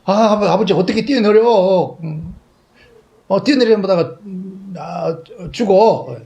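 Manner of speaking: put-on high, loud frightened child begging father; scared child pleading. Frightened boy begging his father from the wall, high and loud.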